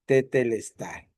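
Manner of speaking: tetelestai pronounced slowly, syllable by syllable te-te-les-tai; Greek word said slowly. Shown as a demonstration. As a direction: spell out tetelestai carefully with sound. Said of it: "cuando está escrita en el griego".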